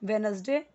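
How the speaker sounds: वेडनेसडे said in full as wenesde, middle syllable kept; full Wednesday. Shown as a demonstration. Teacher giving the second correct way. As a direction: give वेडनेसडे all three syllables, wen-es-de. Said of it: "दोनों सही है।".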